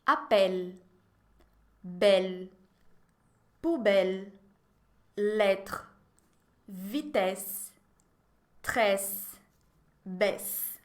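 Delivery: each word read alone, with an open è sound; model pronunciation. Shown as a demonstration. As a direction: read "Appel, belle, poubelle" one by one with a wide open E. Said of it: "Je vais lire et vous répétez". (lendo cada palavra com o E bem aberto)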